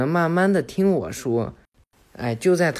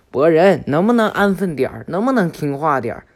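loud exasperated telling-off; scolding; 3 semitones higher, 6 dB louder than usual. Acted. Konohamaru telling off wriggling Boruto, loud scolding. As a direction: scold the squirming kid.

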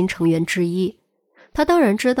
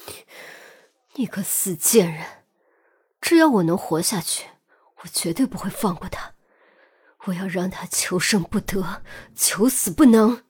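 furious shouting. A narrator's reading. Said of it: "斯提娜的喊声戛然而止".

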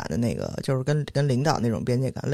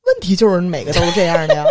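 loud laughing reply; laughing exasperation; 6 dB louder than usual. Real, not acted. Answering her co-host's question, laughing and loud. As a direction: laugh it out, stressing 问题. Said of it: "不是每个都是这样的吗".

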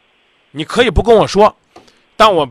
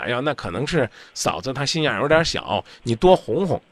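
mock soothing, softer; gentle version; 3 semitones lower, 5 dB quieter than usual. Host fakes a gentle answer to the caller, mock soft. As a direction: sweet-talk him half-ironically. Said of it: "要温柔版的".

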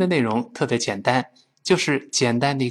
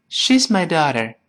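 "daughter" said loose, the t flapped to a d sound; American accent, relaxed; lazy American English; 4 semitones higher than usual. Shown as a demonstration. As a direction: slack mouth, American style. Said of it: "美国人呢，就懒惰得很，说成".

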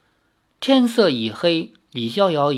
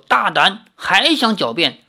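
louder, higher stern rebuke; angry rebuke; 4 semitones higher, 3 dB louder than usual. Acted. Magistrate slams the desk and rebukes the prisoner, louder. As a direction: slam him down for lying.

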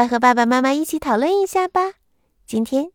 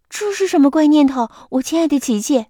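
a touch of raised surprise; surprised mother; 3 semitones higher, faster than usual. Acted. Mother croc startled by Kiki's wish, mildly surprised. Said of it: "妈妈很惊讶地说".

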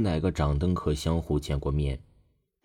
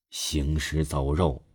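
ominous and stern; 3 semitones lower, 4 dB quieter, slower than usual. Acted. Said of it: "一种莫名的威严散发在外".

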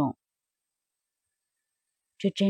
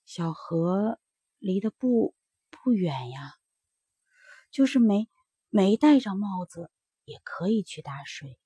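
soft, faltering plea with a whispered break; a weak mother pleading gently, voice giving way; sick mother coaxing her children, softly and haltingly; trembling voice; 4 dB quieter than usual. Acted. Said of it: "说起话来声音开始发抖".

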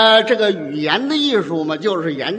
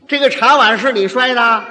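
put-on questioning a child; 3 dB louder than usual. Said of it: "您问他".

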